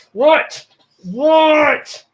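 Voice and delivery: high, loud excited What; sudden high-pitched excited cry; excited squeal. Real, not acted. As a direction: squeal with delight at the cat. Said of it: "Sorry, getting excited again".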